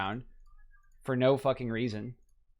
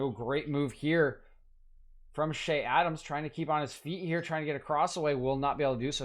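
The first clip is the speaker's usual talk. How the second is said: excited commentary; 4 semitones higher than usual. Acted. Dribbling move in the match.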